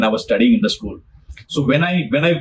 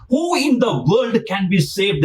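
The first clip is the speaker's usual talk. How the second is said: astounded shout; 5 semitones higher than usual. Acted. Disciples crying out to Jesus in astonishment. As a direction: call it out in disbelief.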